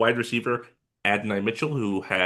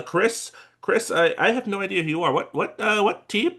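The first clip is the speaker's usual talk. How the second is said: high confused voice; 11 semitones higher than usual. Pretend. Confused GM on pretend call.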